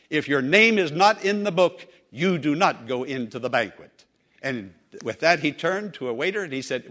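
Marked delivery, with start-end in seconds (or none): 0.1-1.9 higher, louder, firm but kind refusal; a polite gatekeeper who won't budge; firm maitre d'. Retold or imitated. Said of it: "the maitre d' firmly but kindly said". 2.1-4.1 firm maitre d'. Retold or imitated. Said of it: "the maitre d' firmly but kindly said".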